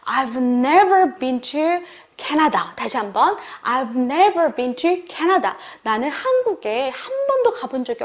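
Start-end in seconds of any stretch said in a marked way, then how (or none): 0.1-2.6 "never" stressed in a slow model sentence. Shown as a demonstration. Teacher modelling for learners, stress on "never". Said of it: "한 번도를 좀 강조해 볼까요?". 3.6-5.5 "never" stressed, slow repeat. Shown as a demonstration. Teacher repeating for learners, stress on "never". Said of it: "한 번도를 좀 강조해 볼까요?".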